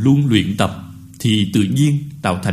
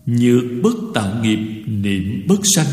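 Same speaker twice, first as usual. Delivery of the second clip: slightly chanted Buddhist verse; verse recitation. Real, not acted. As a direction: intone the verse in measured phrases. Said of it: "tôi sẽ đọc qua bài kệ". (đọc kệ ngân nga, tách từng nhịp)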